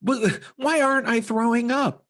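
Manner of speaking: high, slow, pitiful complaining; whiny sick adult. Retold or imitated. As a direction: whimper like you feel awful. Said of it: "you're just like".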